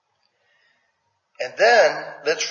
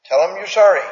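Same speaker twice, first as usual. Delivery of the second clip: parent insisting; 5 semitones higher, 6 dB louder than usual. Retold or imitated. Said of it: "with Janae and the other kids".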